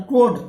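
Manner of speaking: कोड loud, long o, final d; say code. Shown as a demonstration. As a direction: call out कोड clearly. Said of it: "कोड देख लीजिए". (कोड का उच्चारण ज़ोर से)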